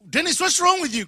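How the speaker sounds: sister's high, loud question; little sister voice. Retold or imitated. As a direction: ask like a worried little sister. Sister asks what's wrong.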